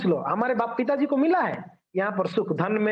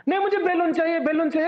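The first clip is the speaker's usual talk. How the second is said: higher, lightly mimicked child's demand; insistent child; 6 semitones higher, faster than usual. Child argues back to mother, lightly acted insistence. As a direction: play a nagging child, mildly.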